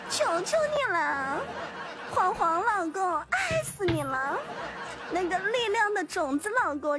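put-on sugary whiny baby talk; cutesy whiny pleading. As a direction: whine sweetly like a clingy girlfriend. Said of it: "撒娇二十连".

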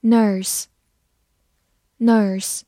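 slow, drawn-out word; slow review word. Shown as a demonstration. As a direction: stretch the word out slowly. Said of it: "复习一下今天学过的单词".

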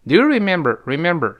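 "remember" stressed, ending in an American R; curled-tongue final R. Shown as a demonstration. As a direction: curl the tongue at the end of "remember". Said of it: "注意最后要卷舌啊".

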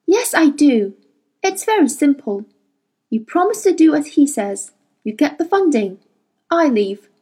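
mock him coldly; bitter sarcasm. Mary's bitter summing up.

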